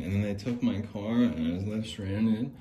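mildly dramatic acted line; a lightly acted tearful take for the camera; fake-sad acting. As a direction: act out losing it all, understated. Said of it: "And action".

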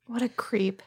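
disgusted whisper. Real, not acted. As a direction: breathe it out in disgust. Disgusted aside about the suspect.

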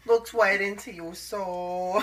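slow, put-on cutesy coo; cooing baby talk. Host gushes over the creature's stare, cooing baby talk.

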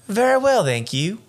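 badly faked Georgia accent, high start; hammed-up Georgia accent. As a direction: attempt a polite Georgia lady, pitch dropping at the end. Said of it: "This is my best Georgia accent".

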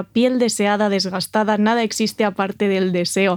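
one long breathless dramatic read; holding breath. Pretend. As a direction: read it all without taking a breath. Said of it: "No respires de arriba abajo para darle el aire dramático". (leyendo sin respirar, de un tirón)

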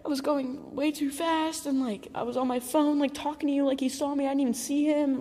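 whiny re-enacted crying; imitated tearful outburst. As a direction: retell it as a tearful wail to dad. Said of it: "I started crying".

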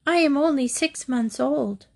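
high, innocent lamb voice; meek lamb. A narrator's reading. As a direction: lamb explaining herself to the wolf. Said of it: "said the lamb".

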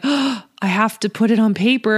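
put-on gasped, lightly panicked kid quote; mild mock dread with a gasp; mock paralysis. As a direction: imitate a child daunted by the task, with a sharp intake of breath. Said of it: "that paralysis that sometimes happens".

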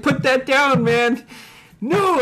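high-pitched imitated back-and-forth; mock standoff. Retelling standoff over the staple gun, high mock arguing.

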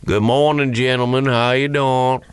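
lightly imitated Southern drawl. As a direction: greet folks in a mild Southern drawl. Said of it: "he talks with a southern drawl".

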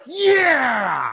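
high, loud whoop; excited cheer. Real, not acted. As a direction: cheer to close the show. Cheering to end the show.

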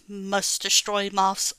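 lightly voiced robot command; flat robotic threat. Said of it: "Robo Chubs".

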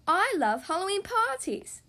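high loud happy shout; excited shout. Acted. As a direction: shout it with party joy. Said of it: "shouts Peppa".

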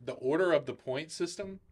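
off mic, faint and distant; speaking away from the microphone; far from mic. Real, not acted. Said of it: "I can't hear you in the mic".

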